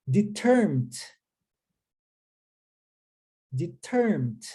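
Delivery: "Determined" clearly, long gap between takes; repeat-after-me model. Shown as a demonstration. Teacher has learners repeat, isolated careful "Determined". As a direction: model "Determined" with falling end, then wait. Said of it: "vou falar para que você repita".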